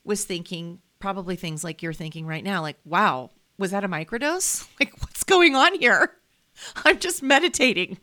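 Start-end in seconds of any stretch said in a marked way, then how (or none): 2.9-8.0 laughing, high and loud, at her own astonishment; laughing disbelief. Retold or imitated. To viewers, imitating her own stunned thoughts while laughing. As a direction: giggle through the words as if caught off guard.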